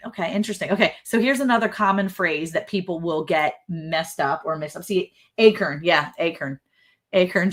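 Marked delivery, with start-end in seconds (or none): 5.4-7.5 "acorn" as AY-kern, second vowel reduced; imitated mispronunciation. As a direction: say "acorn" to rhyme with bacon plus an r. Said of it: "She says acorn".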